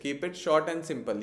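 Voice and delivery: slow, word by word acronym; teacher dictating an acronym slowly; slow dictation. Shown as a demonstration. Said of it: "इस तरीके से".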